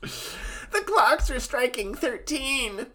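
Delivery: put-on slow, high kid voice reading; little boy reading an audiobook, slow; Mokuba reading. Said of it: "Mokuba Reads nineteen eighty-four".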